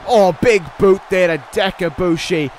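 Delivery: rising, excited ringside call; wrestling commentator. Acted. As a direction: build hype through the pin count. Live play-by-play of finisher and save.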